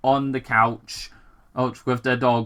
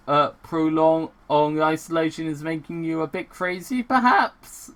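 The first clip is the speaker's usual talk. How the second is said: put-on German accent; 4 semitones higher than usual. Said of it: "speaking in a German accent".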